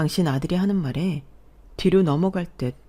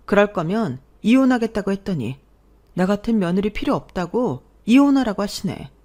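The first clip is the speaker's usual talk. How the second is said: louder, higher, heated complaint; upset accusing wife; 3 semitones higher, 4 dB louder than usual. Acted. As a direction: vent the mother-in-law's insult at him. Wife confronts husband on phone. (흥분해서 따지는 아내 목소리)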